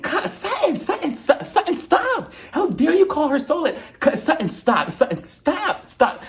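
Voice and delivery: very high mock hysterics. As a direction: imitate a frantic, squealing meltdown. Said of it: "starts losing even more of her shit".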